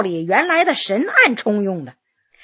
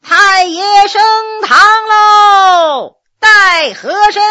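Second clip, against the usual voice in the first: high, long-drawn ceremonial shout; slow, ringing yamen crier's cry; loud court herald call; 7 semitones higher, 6 dB louder, much slower than usual. A narrator's reading. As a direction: proclaim it across the yard, stretching each word. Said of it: "有人高声喊道".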